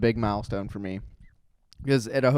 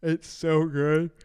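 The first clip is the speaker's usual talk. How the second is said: drawn-out rave; 6 semitones higher, 4 dB louder, much slower than usual. Real, not acted. Raving about the Diet Coke.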